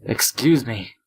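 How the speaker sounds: calling out loudly for help; shouting. Acted. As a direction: yell it through the window. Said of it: "I shouted to the custodian at the top of my lungs".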